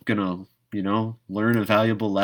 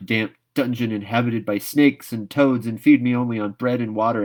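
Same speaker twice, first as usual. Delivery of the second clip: put-on a girl dramatically refusing, louder and faster; defiant dramatic girl; 4 dB louder than usual. Anne defying Marilla, dramatic and louder. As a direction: fling out the refusal with theatrical defiance.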